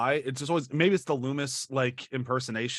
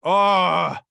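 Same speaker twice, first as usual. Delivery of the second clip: mock killer; 4 semitones higher, 6 dB louder than usual. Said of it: "it's like".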